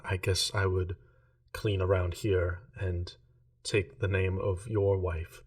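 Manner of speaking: a lightly voiced numb servant; monotone voice. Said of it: "It's been very monotone this whole time".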